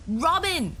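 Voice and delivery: high, loud cry of her name; father screaming his daughter's name in panic; desperate shout. Acted. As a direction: yell her name over the officer. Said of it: "I shouted over him".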